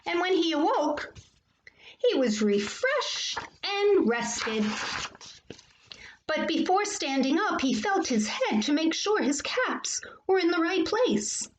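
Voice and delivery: animated picture-book storytelling; reading to children. A narrator's reading. Teacher reading a favorite story to boys and girls, animated. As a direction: read it to children with lively lifts and pauses.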